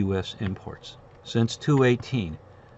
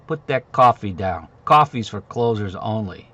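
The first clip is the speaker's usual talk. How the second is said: slow, louder tough sales-boss order; Glengarry sales boss quote; 6 dB louder than usual. Retold or imitated. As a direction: lay down the law like a hard-nosed sales manager. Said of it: "Glengarry, Glen Ross, you know".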